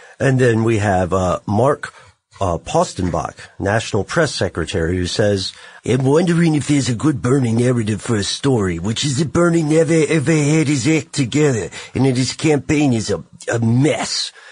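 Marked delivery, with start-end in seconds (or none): 5.9-14.3 silly put-on accented voice, higher. Reading aloud an email from a press secretary: put-on accent. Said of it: "I just wanted to do that voice".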